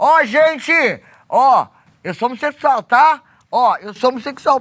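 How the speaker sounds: play-acted, high, drawn-out, yelled megaphone-style announcer shout. Recalling a TV host's question, the speaker acts out announcing through a megaphone, shouting.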